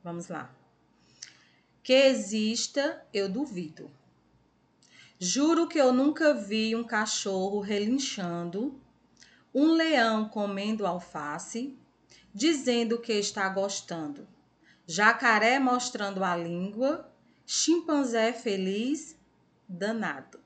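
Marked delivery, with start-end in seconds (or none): 1.8-17.1 put-on reading to children. Teacher reading a playful animal poem to pupils, reading aloud. 19.7-20.4 put-on reading to children. Teacher reading a playful animal poem to pupils, reading aloud.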